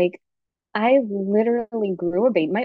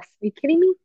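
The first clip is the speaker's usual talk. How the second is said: incredulous; 3 semitones higher than usual. Real, not acted. Indignant disbelief about moms' generation.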